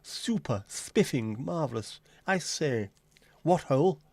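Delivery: lightly put-on posh English exclamations; posh Cockney accent. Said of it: "How do you say lovely jubbly".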